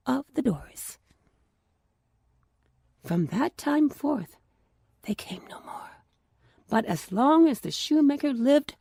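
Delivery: calm storyteller reading a fairy tale; story narration. A narrator's reading. Narrator telling the elves and the shoemaker, gentle storytelling voice. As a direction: read it like a bedtime tale.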